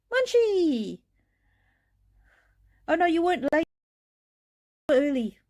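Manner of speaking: high-pitched, excited welcome; thrilled, pitch leaping up; delighted greeting. Real, not acted. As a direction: sing out a happy hello to a friend. Excitedly greets a viewer arriving.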